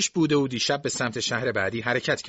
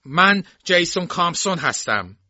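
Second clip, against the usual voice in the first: higher, louder, harsh self-introduction; rough, hoarse voice; 7 semitones higher, 5 dB louder than usual. A narrator's reading. Jason phones the sheriff about the theft, rough and hoarse. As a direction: announce yourself roughly into the phone. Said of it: "با صدای خشن و گرفته گفت".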